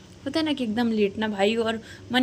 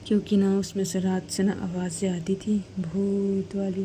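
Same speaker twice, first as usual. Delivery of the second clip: spooky ghost-story voice; 3 semitones lower than usual. Acted. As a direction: drag out भूत वाली to scare. (डराने वाली धीमी आवाज़)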